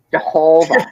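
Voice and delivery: mild imitation of a Midwestern Jehovah; Jehovah with a long Midwest O. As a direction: Midwest vowels on Jehovah, lightly mocked. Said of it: "pronounce it like they're from the Midwest".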